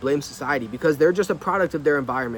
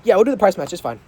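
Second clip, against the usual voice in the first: offhand; 3 dB louder, faster than usual. Shown as a demonstration. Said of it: "The difference".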